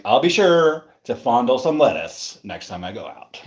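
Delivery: imitated dry sarcasm, lingering on sure; lightly sarcastic quote; mock sarcastic. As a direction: read it back with a touch of sarcasm. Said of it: "you said it kinda sarcastically".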